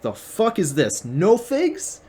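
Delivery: high, loud mock outrage at the tree; hammed-up indignant shouting; shouting at a barren fig tree in mock fury; outraged Jesus. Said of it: "and he's like".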